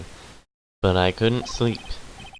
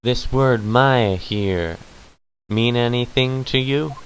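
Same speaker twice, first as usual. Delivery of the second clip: put-on southern accent.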